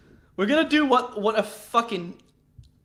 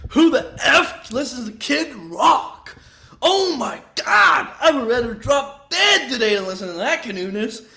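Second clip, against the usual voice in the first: mock shouted thumbnail; 3 semitones higher than usual. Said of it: "I just saw the thumbnail for".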